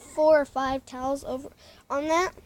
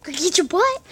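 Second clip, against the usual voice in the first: loud command; 3 semitones higher, 7 dB louder than usual. Real, not acted. Telling the dog off.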